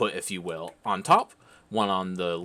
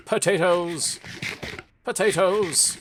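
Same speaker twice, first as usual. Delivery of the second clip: excited shout; 8 semitones higher, 4 dB louder, slower than usual. Real, not acted. Gleefully calling out for food.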